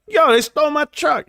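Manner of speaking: retelling the dad's shout at the window; dad's shocked outburst. Retold or imitated. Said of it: "and he was like".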